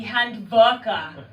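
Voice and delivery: Handwerker said the German way, HANT-verker; German pronunciation. Shown as a demonstration. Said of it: "I'm mispronunciating".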